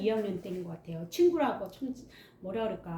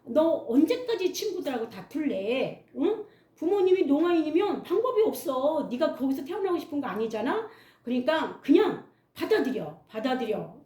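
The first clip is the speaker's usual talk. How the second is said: stern teacher advice; 5 semitones higher than usual. Retold or imitated. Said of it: "선생님께서 저한테 말하기를".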